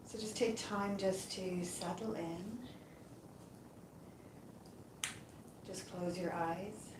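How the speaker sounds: calm, unhurried meditation voice with long pauses; guided yoga nidra. Acted. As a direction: guide them gently into rest, leaving space between phrases. Leads a yoga nidra relaxation.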